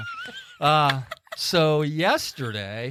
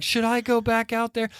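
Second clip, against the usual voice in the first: high-pitched imitation of a fretting wife; mock-tearful pleading question; near tears; 10 semitones higher than usual. Wife asking husband about the bird, mock near-tears. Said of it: "almost to the point of tears".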